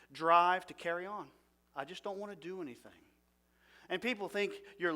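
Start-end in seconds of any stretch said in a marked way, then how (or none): 1.8-2.9 much softer, quick, worn-out mumble; quiet defeated thought. Retold or imitated. Preacher voicing a depressed person's refusal, soft and weary. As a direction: throw it away like you've given up.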